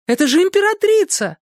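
very high, frantic pleading cry; desperate high cry over the railing; frantic court ladies' cry. Acted. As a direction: shriek it like panicked court ladies. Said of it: "кричали наперебой".

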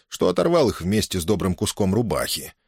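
ordinary delivery

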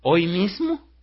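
high, loud, rising disbelief; startled question. Retold or imitated. Man answers her sudden marriage proposal, startled. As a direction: blurt it out, shooting up at the end.

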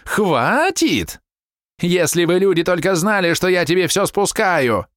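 high, stabbing angry shouts; wife berating her husband before guests; furious wife. A narrator's reading. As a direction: cut him down with every word. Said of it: "голос колол, словно ржавый клинок".

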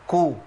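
كو with a puff of breath after the k; breathy k demo. Shown as a demonstration. Teacher demonstrating the k with a damma. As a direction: aspirate the k of كو. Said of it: "الحالة اللي بعد كده".

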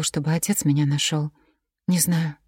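ordinary delivery

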